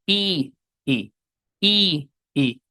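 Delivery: I alternating stretched ee and quick lax ih; first I long and tense, second I short and lax; long i versus short i. Shown as a demonstration. Teacher showing students the difference, long versus short i. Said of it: "¿Ven la diferencia?".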